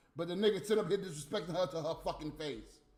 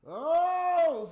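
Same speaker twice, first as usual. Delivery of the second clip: surprised oh; 9 semitones higher, 8 dB louder than usual. Real, not acted. Surprised at the text news.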